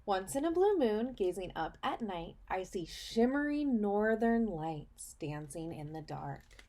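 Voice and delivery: put-on reading to children. Teacher reading a picture book to her students, storybook voice. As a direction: read it like storytime for little kids.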